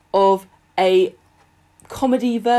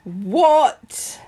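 a sharp, high, incredulous What; disbelieving the complaint, pitched up; indignant surprise; 6 semitones higher, 3 dB louder than usual. Real, not acted. Hearing a listener's complaint, a high incredulous what.

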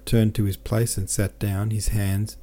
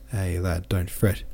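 tender sing-song; slower than usual. Acted. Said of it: "tender sing-song caressing voice".

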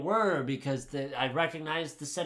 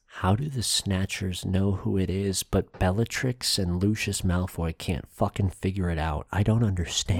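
loud, low, emphatic disbelief; exasperated rant; 7 semitones lower, 6 dB louder than usual. Real, not acted. Complaining the snatchers know but Bellatrix doesn't, exasperated. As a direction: push out the complaint in frustration.

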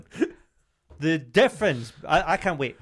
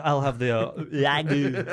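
fake Italian accent; slower than usual. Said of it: "Guy at restaurant who ... accent".

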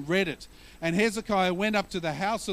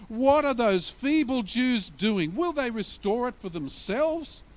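a touch of a mocking bully; jeering bully; 3 semitones higher than usual. Preacher voicing Sanballat jeering at the Jews, mildly mocking. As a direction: sneer it like a taunting enemy. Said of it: "That's what bullies do".

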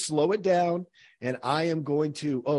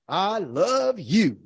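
sincere demo; 3 semitones higher, much slower than usual. Shown as a demonstration. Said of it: "all line up".

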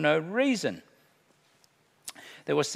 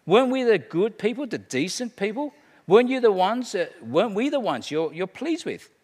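indignant churchgoers; 5 semitones higher than usual. Acted. Preacher voicing religious people protesting to Jesus, higher and indignant. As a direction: insist you were the good ones. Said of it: "these are the people who are claiming to Jesus".

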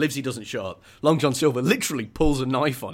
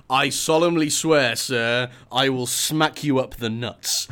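mock solemn oath; 3 dB louder, slower than usual. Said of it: "kind of being like".

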